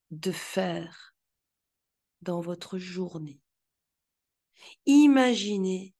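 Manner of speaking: punchy, intense trailer announcer; movie trailer voice. Shown as a demonstration. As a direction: sell it like a film trailer. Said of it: "telle que celle que vous entendez en ce moment".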